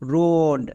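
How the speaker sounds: রোড with the ও drawn out; long vowel sound. Shown as a demonstration. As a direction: stretch the vowel in রোড to demonstrate it. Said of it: "long sound".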